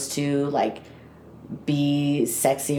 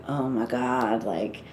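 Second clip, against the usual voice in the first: inner groan; 3 semitones higher than usual. Retold or imitated. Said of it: "here I am just like".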